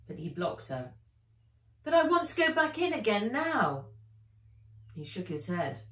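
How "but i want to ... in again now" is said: high, louder eager plea; pleading girl. Acted. Nat pleading with Philippe, high and eager. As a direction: beg to go back in.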